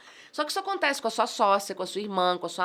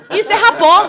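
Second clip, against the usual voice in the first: shouted through a laugh, much higher and louder; laughing exclamation; 10 semitones higher, 17 dB louder than usual. Real, not acted. Host laughing at her own joke, loud laughing cry. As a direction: blurt it out while cracking up. Laughing punchline after chant.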